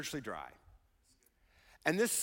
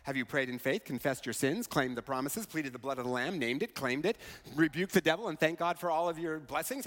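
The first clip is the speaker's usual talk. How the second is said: lightly mock a pious advice-giver rattling off remedies; low-key imitation of unhelpful church advice; preachy fellow Christian; 3 semitones lower than usual. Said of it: "Say things like".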